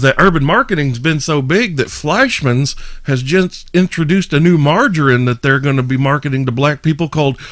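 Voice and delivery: builds to a high, loud punchline; loud stage comedian. Retold or imitated. Retelling the margarine joke, building to a high, loud punch. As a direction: crank it up on Yo Yo Yo.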